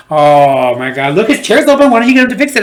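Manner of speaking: a jilted lover sneering at the rival; hurt sarcasm. Retold or imitated. Jealous barber sarcasm.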